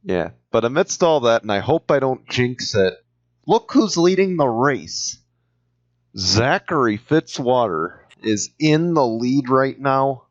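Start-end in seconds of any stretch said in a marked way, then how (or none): 3.5-10.2 rising excitement at the lead; excited. Real, not acted. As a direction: call it like it's a big moment. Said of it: "you could tell by the excitement of my voice".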